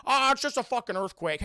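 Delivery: exaggerated nonchalance; mock brush-off. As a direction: wave it away with a hammed-up groan. Acted dismissive bystander quote.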